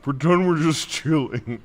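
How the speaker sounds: giggling through the words; laughing. Real, not acted. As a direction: laugh as you say it. Laughing repeat of line.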